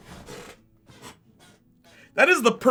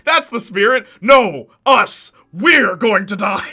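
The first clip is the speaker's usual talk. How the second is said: laughing Eddie; 4 semitones higher, 9 dB louder, slower than usual. Retold or imitated. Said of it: "Eddie's like".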